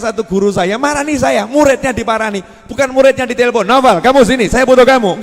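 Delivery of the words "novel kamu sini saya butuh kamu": imperious teacher. Retold or imitated. Teacher summoning student, imagined.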